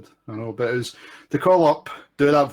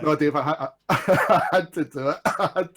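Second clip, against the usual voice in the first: laughing. Real, not acted. Caller laughing at own bit.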